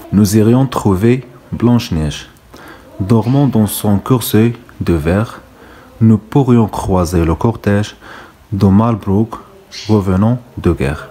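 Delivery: very slow, measured verse; poem recitation. Acted. Teacher reads the Blanche-Neige verse to pupils, slow recitation. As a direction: recite slowly, pausing between the phrases.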